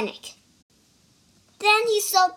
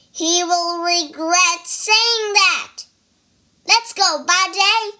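furious shout; 6 semitones higher, 6 dB louder than usual. Acted. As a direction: roar it out in fury. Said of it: "Wukong's eyes blazed with fury".

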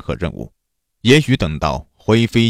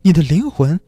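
lightly voiced demon woman, higher pitch; higher pitched, drawing out the final words; demon claiming a soul; 8 semitones higher than usual. A narrator's reading. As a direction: claim what is yours as the demon.

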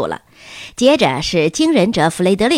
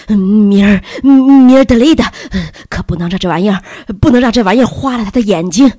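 hurried, stammering nerves, louder, not hushed; nervous whisper; 7 dB louder than usual. A narrator's reading. Mr. Sturgeon, tense, urges his wife not to dazzle the boy. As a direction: blurt it fast, worried about the flash. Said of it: "非常紧张地小声说道".

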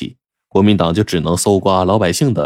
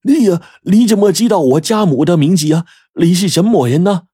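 high-pitched, shocked questioning; startled and incredulous; greatly astonished; 11 semitones higher, 4 dB louder than usual. A narrator's reading. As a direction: demand answers in astonishment, pitch jumping way up. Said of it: "李小华大为吃惊啊".

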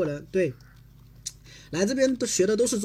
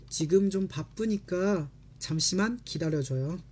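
quick natural read; much faster than usual. Shown as a demonstration. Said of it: "就这种感觉了啊".

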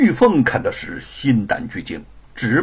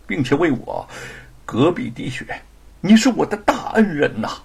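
moved. Acted. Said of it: "动情地说".

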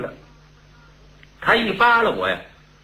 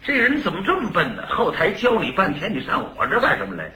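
angry scolding; 3 semitones higher than usual. Retold or imitated. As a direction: snap at the clumsy helper, rushing it. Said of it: "他这气大了".

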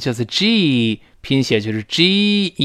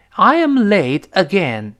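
annoyed; 6 semitones higher, 3 dB louder, slower than usual. Shown as a demonstration. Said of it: "恼火".

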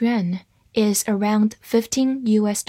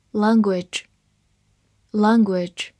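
slow drawn-out review; much slower than usual. Shown as a demonstration. Vocabulary review repetition.

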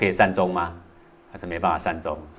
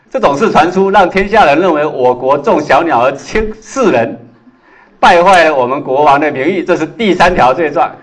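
hammed-up accusation; 6 semitones higher, 9 dB louder than usual. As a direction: thunder out the charges in mock outrage. Yanzi loudly listing the crimes.

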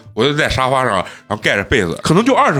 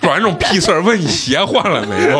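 much higher, laughing mock rant; imitating mom ranting about dad and slippers; mock angry mom; 11 semitones higher than usual. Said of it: "我妈说".

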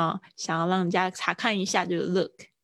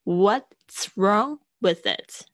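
very slow model; 3 dB louder, much slower than usual. Shown as a demonstration. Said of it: "当然你也可以说".

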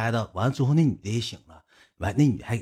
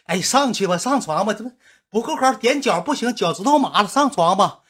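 wheedling coax; 9 semitones higher than usual. Retold or imitated. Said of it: "赖的紧着说：".

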